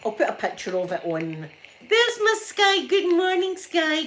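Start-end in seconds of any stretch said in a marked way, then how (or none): 1.9-4.1 high, loud, delighted hello; excited greeting. Real, not acted. Vlogger spotting her viewer Sky in the chat, excited greeting. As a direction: greet her like a friend you've missed.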